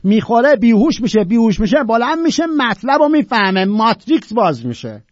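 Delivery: ordinary delivery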